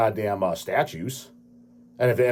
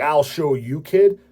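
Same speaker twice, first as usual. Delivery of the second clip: mock authoritative; 4 semitones higher, much slower than usual. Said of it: "they talk very authoritative".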